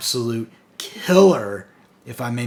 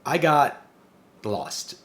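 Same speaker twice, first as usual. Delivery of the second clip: pause, then slip out the punchline, imitating a sly villain; 2 semitones higher, much slower than usual. Reviewer voices Cobra Commander answering the Protector, sly. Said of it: "this sly remark back to the Protector".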